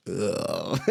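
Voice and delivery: soft groan of disgust. Retold or imitated. Recalling body-temperature pool water, disgusted groan. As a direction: let out a quiet, grossed-out ugh.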